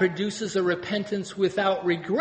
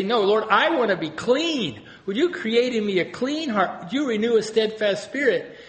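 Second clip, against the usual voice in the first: higher, asking gently; pleading prayer; 4 semitones higher than usual. Retold or imitated. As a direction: plead with the Lord to be made clean. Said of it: "or you can say".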